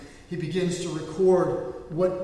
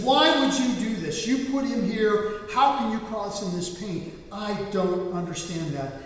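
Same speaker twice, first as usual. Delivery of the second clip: slow, raised, anguished demand; retold angry plea, louder then easing; angry at God; 3 semitones higher, 3 dB louder, slower than usual. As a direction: demand an answer from God, word by word. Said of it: "He gets angry at God".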